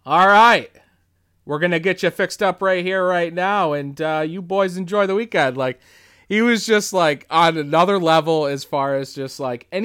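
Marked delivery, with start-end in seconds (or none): 0.0-5.6 loud all right, easing into friendly patter; lightly imitated jovial host, raised pitch; Tom Atkins impression. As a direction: send the boys off heartily. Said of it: "inflection is so spot on for him".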